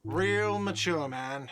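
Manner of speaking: slow, whiny yell; whiny shout. Acted. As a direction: jeer it slowly in a whine. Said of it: "a whiny voice shouts".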